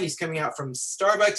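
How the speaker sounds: normal talking voice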